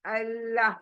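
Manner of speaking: अल्लाह with a thin, light लाम, lips drawn; thin Allah. Shown as a demonstration. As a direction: say अल्लाह thin, mouth narrow. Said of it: "पतला".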